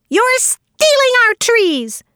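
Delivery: high, slow screeched accusation; angry shriek. A narrator's reading. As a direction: screech it out, stretching the words. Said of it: "shrieked Sammy".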